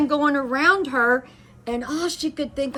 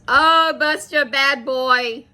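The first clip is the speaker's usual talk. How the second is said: mock scolding; 2 semitones higher, 4 dB louder, slower than usual. Coda finding Buster under the stairs, scolding. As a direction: lightly imitate someone telling off a dog.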